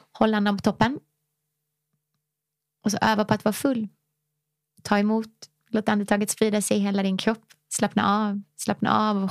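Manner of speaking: soothing breathwork guide; guided breathing. Acted. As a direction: lead them through the breath gently. Leads a breathing exercise.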